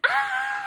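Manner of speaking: retold high scream. To family, shrieking over the acceptance, mild mock scream. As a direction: shriek with delight, softly replayed. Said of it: "I screamed".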